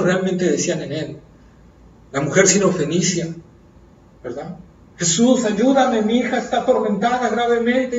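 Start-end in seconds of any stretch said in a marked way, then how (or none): 5.0-8.0 pleading woman. Acted. Syrophoenician woman pleading voiced.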